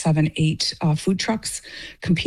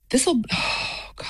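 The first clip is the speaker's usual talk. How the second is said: breathless, breaking oh God, pitched higher and softer; a real sigh of strain slipping out; emotional sigh; 8 semitones higher, 4 dB quieter, slower than usual. Real, not acted. Emotional moment about homeland conflict.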